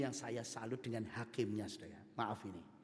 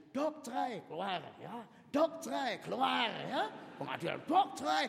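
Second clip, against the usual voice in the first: hurried judge; 9 semitones higher, 6 dB louder than usual. Acted. Judge hammering divorces daily.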